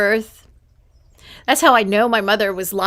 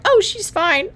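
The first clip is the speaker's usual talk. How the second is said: amused doctor; 9 semitones higher than usual. Retold or imitated. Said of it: "they're happy I'm crying".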